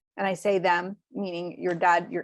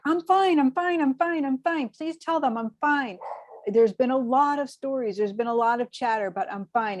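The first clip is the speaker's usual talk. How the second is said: higher insistent repeated reassurance, settling down; reassuring brother-in-law; 4 semitones higher than usual. Retold or imitated. Brother-in-law telling family not to worry, insistent light reassurance. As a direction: brush off worry, lighter as it goes. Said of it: "he's just like".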